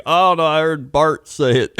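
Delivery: put-on high, loud child's protest; kid excusing himself. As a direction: plead innocent like a seven-year-old. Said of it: "And I was like".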